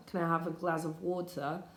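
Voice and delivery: British English, "water" with a crisp t; British English demo; British accent. Shown as a demonstration. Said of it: "That'd be British English".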